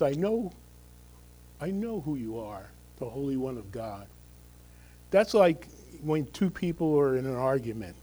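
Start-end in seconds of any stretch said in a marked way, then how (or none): 0.0-4.1 quieter reread. Acted. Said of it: "this last sentence".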